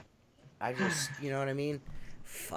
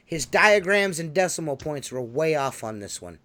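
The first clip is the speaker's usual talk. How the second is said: loud, raised-pitch announcing; mock report; 3 semitones higher, 8 dB louder than usual. Host reporting on Phil's bad diagrams, loud mock announcement. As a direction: belt out the mock bulletin.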